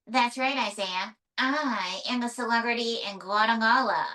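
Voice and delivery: lightly voiced flirty puppet, drawn-out ending; puppet diva May, flirtatious. Puppet May flirts with the interviewer, lightly voiced diva. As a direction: play a puppet diva flirting, slowing on the compliment.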